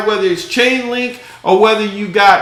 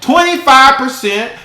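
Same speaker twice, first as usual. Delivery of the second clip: raised, outraged disbelief at the crash; exasperated rant; 4 semitones higher, 3 dB louder than usual. Real, not acted. Vlogger ranting to viewers about the crypto crash, exasperated. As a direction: rant about the drop and rebound, higher and louder.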